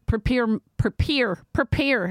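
Philly-accented "prepare" over and over; Philadelphia accent. Shown as a demonstration. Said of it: "That was my accent".

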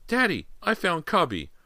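put-on very high little boy; child calling out. A narrator's reading. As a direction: call to your father in a tiny voice. Boy calls from above.

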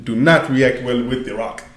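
hammed-up stiff proper speech; lightly put-on formal accent; mock Wakandan voice. Host mocks the movie's Wakandan speech, stiff proper voice. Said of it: "I can't do, I can't do it no more".

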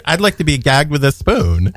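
put-on Valley Girl voice. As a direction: gush like a Valley Girl, breaking into laughs. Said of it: "in a Valley Girl voice".

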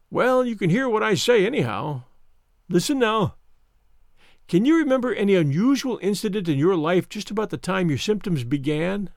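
lightly voiced smug interrogator; Mister Smith, smug. Visitor questioning sick Holmes, mildly smug.

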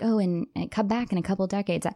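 every phrase falling flat, no upspeak; flat falling delivery. Retold or imitated. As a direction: keep the tune down at each end. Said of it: "She had no up, upspeak".

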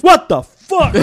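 high, loud startled outburst, imitated; mock freaking out. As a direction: act out a man scared into swearing. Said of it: "he'd just be freaking out".

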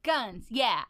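a lightly voiced, boastful icy king; tough Ice King. Ice King bragging about his arms, a light swagger. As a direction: show off his muscles, swaggering.

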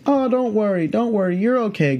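high, breezy reassurance; reassuring snake handler. Retold or imitated. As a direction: imitate a pro waving off everyone's fear. Handler reassures frightened guys.

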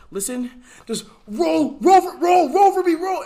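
high, stretched, strained pleading; mimicking the girl's strange high plea. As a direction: imitate her eerie high begging. Retelling girl's strange plea before seizure.

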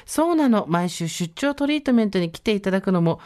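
put-on haughty rich girl japanese. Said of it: "マウント取ってく".

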